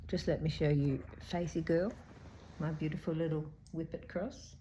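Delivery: speech thickened by dental work; slightly slurred from a sore mouth; talking funny. Real, not acted. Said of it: "I'm talking funny 'cause I had dental work done yesterday".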